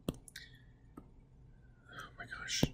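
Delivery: whispered under her breath; exasperated whisper. Real, not acted. Teacher whispering to herself, annoyed at the eraser. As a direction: mutter it to yourself, annoyed. Teacher frustrated with erasing on screen.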